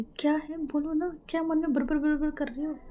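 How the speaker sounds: light mock nag; teasing prod. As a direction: poke at her mumbling playfully. Teasing prod at mumbling friend.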